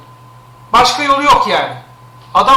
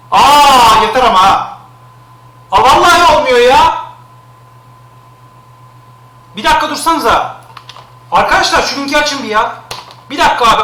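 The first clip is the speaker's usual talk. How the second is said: louder, higher fed-up outburst; exasperated outburst; 5 semitones higher, 5 dB louder than usual. Real, not acted. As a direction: snap at the chat, fed up. Annoyed at link spam.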